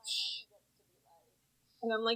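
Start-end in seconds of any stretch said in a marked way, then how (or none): 0.1-0.4 hushing. Acted. Co-host imagining Davey turning the lady down, hushing. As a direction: shush her quietly. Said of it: "he gets to be like".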